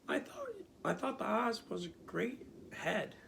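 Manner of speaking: put-on high, surprised girl voice; young girl voice. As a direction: wonder aloud like a girl. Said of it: "said Dorothy".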